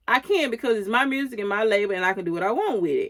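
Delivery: fast, clipped-off boss comeback, lightly acted; boss mode. Label owner shutting down her artist's protest, fast mock boss mode. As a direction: rattle it off like the one in charge. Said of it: "straight boss mode".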